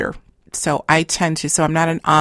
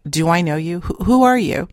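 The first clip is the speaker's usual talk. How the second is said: puzzled surprise. Retold or imitated. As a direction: ask as if baffled.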